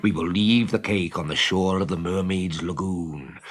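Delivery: a pirate captain relishing his plot; scheming pirate captain. Acted. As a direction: savour the wicked plan. Hook plotting with Smee.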